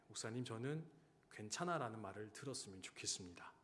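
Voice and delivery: soft, hushed repeat of the quiet request; hushed, small voice; quiet retelling. Retold or imitated. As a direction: say it low and gentle, as the quiet soldier did. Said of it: "조용히 이렇게 말하더라고요".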